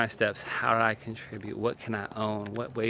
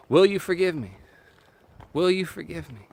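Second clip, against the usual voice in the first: plain; 6 semitones higher, 6 dB louder than usual. Shown as a demonstration. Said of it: "That's it".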